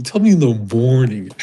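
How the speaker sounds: cold dismissive line repeated; a hint of callous boss; callous drawl. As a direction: throw it away coldly. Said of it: "I used to talk like that".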